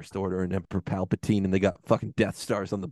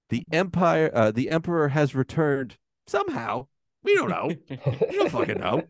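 higher-pitched mocking recap of the opening crawl; mock crawl paraphrase; 5 semitones higher than usual. Ranting fan mocks the movie's opening scroll, mockingly. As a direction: retell the crawl as a clueless shrug. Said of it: "not gonna get the exact quote. Here's the gist".

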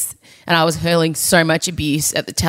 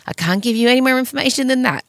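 excited; 7 semitones higher, faster than usual. Shown as a demonstration.

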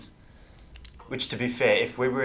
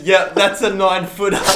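casual deadpan; 8 semitones higher, 9 dB louder than usual. Retold or imitated. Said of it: "he says".

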